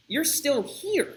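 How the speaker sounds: slow, drawn-out teasing question; mild taunt. Retold or imitated. Guard teasing the women still waiting, slow rising taunt. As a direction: ask it slowly, rising at the end.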